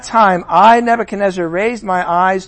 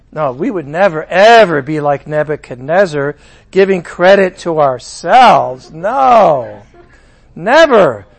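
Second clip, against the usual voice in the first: pushed mock-indignant never; sarcastic denial; 4 semitones lower, 3 dB louder than usual. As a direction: deny it too hard.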